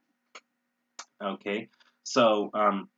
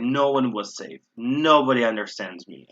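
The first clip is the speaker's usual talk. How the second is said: emphatic, swelling "No one" and "Nobody"; stress on the negatives; 3 dB louder than usual. Shown as a demonstration. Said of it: "I'm emphasizing this".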